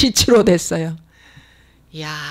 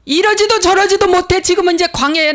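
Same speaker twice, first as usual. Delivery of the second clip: exasperated cry; 8 semitones higher, 4 dB louder than usual. Retold or imitated. Preacher voices stuck believer.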